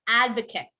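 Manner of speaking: Advocate as AD-vuh-kit for repeating; ending on t. Shown as a demonstration. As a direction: keep the end of Advocate short. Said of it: "could we all repeat that?".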